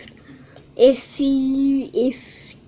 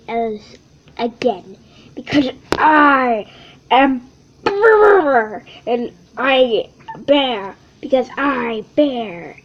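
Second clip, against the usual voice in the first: toned-down retake of the bear; second take; 3 semitones lower than usual. Acted. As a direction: try the bear again more subdued. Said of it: "Let me try this again".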